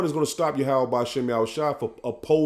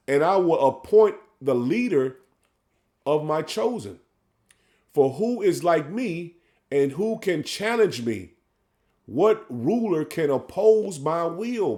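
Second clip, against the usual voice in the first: measured, drawn-out scripture reading; solemn sermon reading; slow preaching scripture read; slower than usual. Acted. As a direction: lay each phrase out slowly like a preacher.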